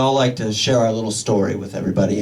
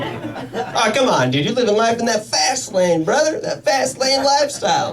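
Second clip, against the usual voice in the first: bro voice; 9 semitones higher than usual. Retold or imitated. Friend teasing about fast lane.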